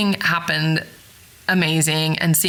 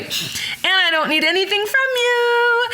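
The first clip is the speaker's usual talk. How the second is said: retold retort; 14 semitones higher than usual.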